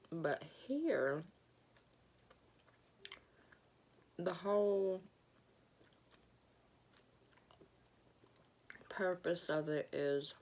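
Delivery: talking through a mouthful of food; chewing while speaking, mouth full. Real, not acted. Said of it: "talking with my mouth full".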